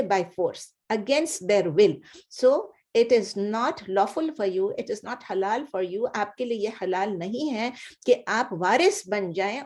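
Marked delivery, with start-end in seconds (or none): 0.0-1.9 drawn-out teaching emphasis; slow, deliberate gloss. Shown as a demonstration. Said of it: "slow emphasised gloss". 2.4-6.1 slow, careful translation; teacher translating the verse, slowly; slow gloss. Shown as a demonstration. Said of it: "slow teaching translation".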